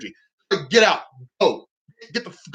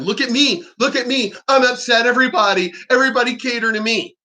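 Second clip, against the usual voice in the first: higher, mock-whiny child voice, faster at the end; childish whining; 4 semitones higher than usual. Mocking attention-seekers as whiny children. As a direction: ham up a bratty kid begging for attention. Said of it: "Like a bunch of children".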